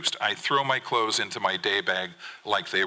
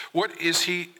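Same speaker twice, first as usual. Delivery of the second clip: high-pitched, exasperated demand; 9 semitones higher than usual. A narrator's reading. Father starts in on mother about son, exasperated. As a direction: pitch the question up in frustration.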